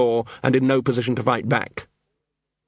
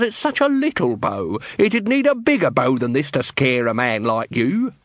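high, wheedling accusing patter; Nobby's voice; 3 semitones higher than usual. Acted. Nobby bluffing the quartermaster with a high accusing patter. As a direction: lay the accusation on thick, pitched high.

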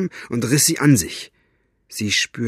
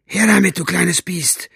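hissing; 7 semitones higher than usual. Acted. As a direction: snarl it at her like a villain. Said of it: "zischte er sie an".

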